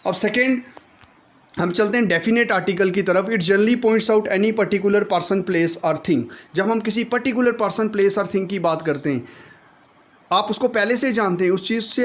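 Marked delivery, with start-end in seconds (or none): 3.3-6.2 slow dictation. Shown as a demonstration. Teacher reading definition.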